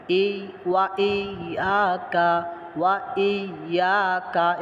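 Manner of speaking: slow, drawn-out Quranic recitation. Shown as a demonstration. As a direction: recite it slowly for the students. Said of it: "teacher demonstrates the phrase". (ধীরে তিলাওয়াত)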